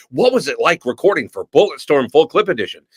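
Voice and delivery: eager fan question. Retold or imitated. Fan at a convention asking the actor, lightly imitated eager question.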